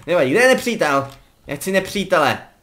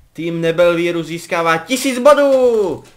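slow, louder ceremonial announcing; mock headmaster announcement; 2 semitones higher, 5 dB louder, slower than usual. Gamer jokingly announces house points in a slow ceremonial voice. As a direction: proclaim it like a school headmaster at a feast.

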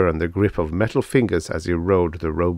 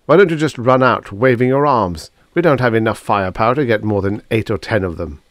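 irritated scolding; 3 semitones higher, 4 dB louder, faster than usual. Acted. Angus scolds Drummond.

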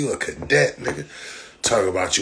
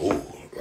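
breathy whispered ooh; soft unvoiced ooh; 9 dB quieter than usual. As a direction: hiss an impressed ooh under your breath. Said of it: "you go".

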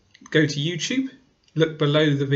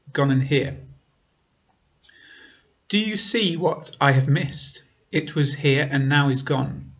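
measured poetry reading, line by line; poem recitation. Acted. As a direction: recite it evenly, pausing between the lines. Reads own poem aloud.

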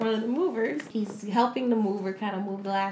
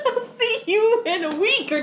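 gleeful devil voice; 10 semitones higher, 6 dB louder than usual. Acted. Voicing the devil.

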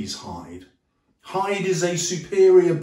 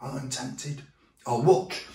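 hushed tempted Lanyon; 3 semitones lower, 6 dB quieter, slower than usual. Retold or imitated. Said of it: "Lanyon says".

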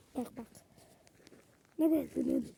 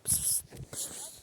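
whispered "pıs pıs"; coaxing whispered cat call; soft cat call; 13 dB quieter than usual. Real, not acted. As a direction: hiss "pıs, pıs" unvoiced to lure the cat. Calling the cat softly.

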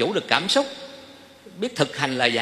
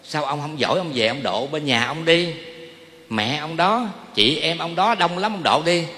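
wife retorting; 2 semitones higher than usual. Retold or imitated. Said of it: "cái con mới nói".

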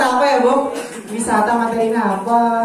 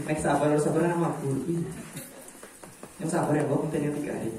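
fading mock announcement; 6 semitones lower, 11 dB quieter, faster than usual.

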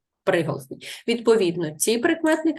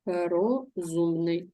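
slow dictation; much slower than usual. Shown as a demonstration. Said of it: "пишемо перше слово".

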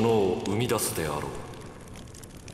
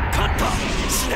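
triumphant shout; 12 semitones higher, 4 dB louder, faster than usual. Acted. Villain declares victory.

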